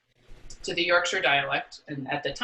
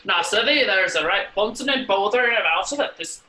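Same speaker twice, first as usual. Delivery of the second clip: louder, broad Yorkshire dialect reading; 3 semitones higher, 6 dB louder than usual. Shown as a demonstration. Reviving his Communist Manifesto reading for the host, in louder broad Yorkshire dialect. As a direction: declaim it like a Yorkshire worker, louder. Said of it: "Maybe it's time to remount that".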